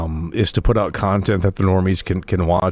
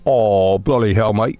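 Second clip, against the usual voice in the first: mock British accent; slower than usual. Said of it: "why do you hate British people?".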